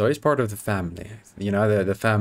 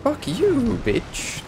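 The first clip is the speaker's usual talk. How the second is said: angry yell; much slower than usual. Real, not acted. Yelling at the game enemy.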